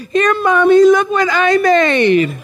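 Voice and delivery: put-on high, eager little kid; mock child showing off a drawing; child's voice. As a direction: squeak it up like a proud small child. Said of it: "you come out of children's church".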